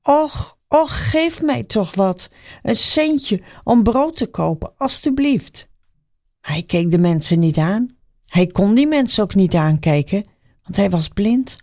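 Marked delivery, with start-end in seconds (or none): 0.0-5.7 high, slow begging call; pleading beggar. A narrator's reading. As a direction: beg for a coin, pitiful. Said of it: "hij begon te roepen". (smekende bedelaar, hoog)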